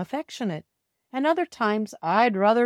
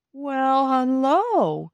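calm greeting; 6 semitones higher, 5 dB louder, much slower than usual. Acted. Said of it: "she said calmly".

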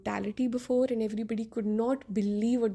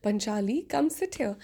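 imitating a leering villain. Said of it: "he said it like that".

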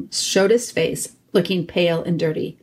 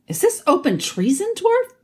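raised regal challenge; king voice; 12 semitones higher than usual. A narrator's reading. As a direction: demand it like a king. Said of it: "asked the king".

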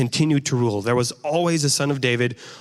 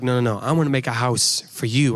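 God correcting; 2 semitones lower than usual. Retold or imitated. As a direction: calmly turn the offer around. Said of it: "And God's like".

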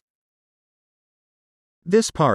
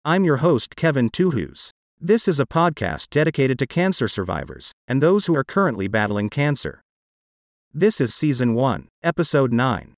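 text-to-speech voice, even and mechanical; computer-generated voice. Real, not acted. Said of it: "my part of this podcast is done with a computer-generated voice".

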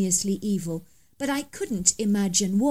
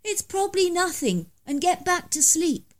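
grumbled; 9 semitones higher than usual. Acted.

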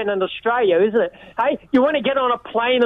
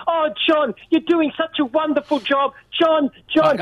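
slightly raised voice imitating fawning callers; mock gushing praise; 3 semitones higher than usual. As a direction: lightly mimic an adoring fan. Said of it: "Everybody coming on praising you".

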